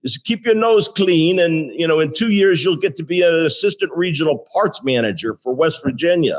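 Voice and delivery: lightly imitating a German boss with a German accent. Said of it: "in his German accent".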